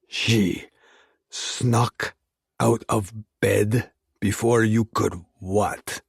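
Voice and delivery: each word bitten off, slow and separated; biting out each word. Acted. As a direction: clip every word with cold menace. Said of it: "He bit out each word".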